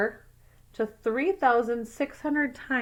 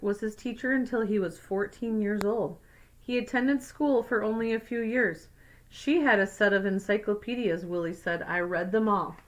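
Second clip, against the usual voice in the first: put-on clear, even read-aloud voice for kids; story narration. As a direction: read it like a picture book to a class. Reads picture book aloud.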